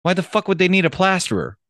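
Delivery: high-pitched disbelief; baffled punchline. Acted. Plasterer dog to bartender about circus, baffled. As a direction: land it as utter bafflement.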